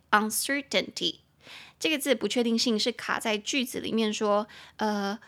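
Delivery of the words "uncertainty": uncertainty with CER stressed; stress on second syllable. Shown as a demonstration. Teacher models uncertainty for learners, stressing CER. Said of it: "重音节在第二音节".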